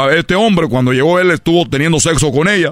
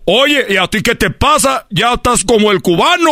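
wife's complaint; 9 semitones higher than usual. Retold or imitated. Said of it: "Y me dijo".

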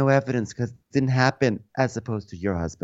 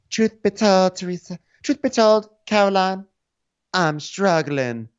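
mock pleading; 10 semitones higher than usual. Jen quote, pleading.

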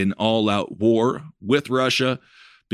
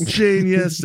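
sarcastic; 8 semitones higher than usual. Real, not acted. Sarcastic echo, louder.

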